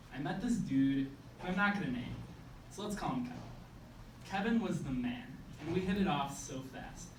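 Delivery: measured spoken-word recital with punched phrase openings; slam poem. Acted.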